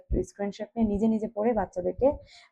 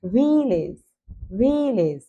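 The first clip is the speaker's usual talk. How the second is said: ভিলেজ called out louder; loud repeat-after-me; 2 semitones higher, 4 dB louder, much slower than usual. Shown as a demonstration. Teacher leading a loud vocabulary drill. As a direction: call out ভিলেজ loudly for pupils to repeat. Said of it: "উচ্চ স্বরে উচ্চারণ করো".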